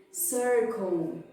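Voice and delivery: "circle" with a curled R before the c; curled English R. Shown as a demonstration. Teacher modelling words for parents, curled R. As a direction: say "circle" with a clear retroflex R. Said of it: "sempre com esse R enrolado".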